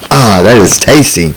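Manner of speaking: voice dropped low. Real, not acted. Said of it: "notice my voice dropped an octave".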